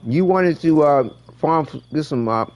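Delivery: talking with food in mouth; words round a mouthful, chewing; chewing while talking. Real, not acted. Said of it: "sorry, I'm chewing while I'm talking".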